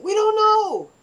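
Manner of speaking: very high, loud put-on guard voice; mock guard answer. Guard answering the prank call, very high and loud. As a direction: squeal it like a flustered soldier.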